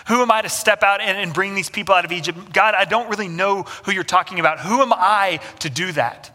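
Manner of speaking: a reluctant man backing away from a big task; anxious Moses. Retold or imitated. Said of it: "Moses looks at God and goes".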